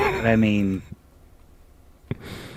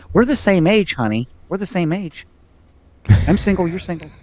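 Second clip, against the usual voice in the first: high, playful come-on; flirty pitch to a star, pitched up; mock flirtatious; 8 semitones higher than usual. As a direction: coax her, teasing. Flirting with actress, addressing her.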